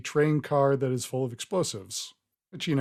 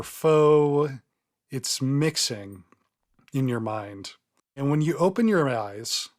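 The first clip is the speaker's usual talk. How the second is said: game master narration. Acted. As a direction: let each phrase of the vision hang.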